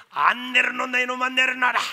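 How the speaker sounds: acted shouted protest; protesting mother. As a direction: demand to be put down, as an angry mother. Carried mother demands release.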